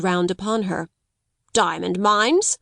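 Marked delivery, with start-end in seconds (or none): 1.5-2.6 broke out. Acted. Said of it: "he broke out".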